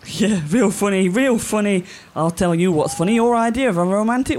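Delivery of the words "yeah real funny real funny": sarcastic. Acted. Sarcastic reply to joke.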